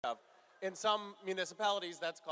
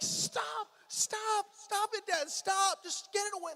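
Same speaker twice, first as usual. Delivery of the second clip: put-on higher, louder pleading kids; kids yelling stop; 13 semitones higher, 5 dB louder, slower than usual. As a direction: imitate the kids begging dad to stop, pitched up. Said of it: "They're like".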